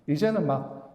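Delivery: ordinary delivery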